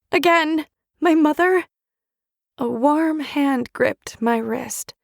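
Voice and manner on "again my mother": louder, higher, furious outburst; raging cry. Acted. Narrator stabbing her father's killer, louder raging cry. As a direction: spit it out in rage while stabbing.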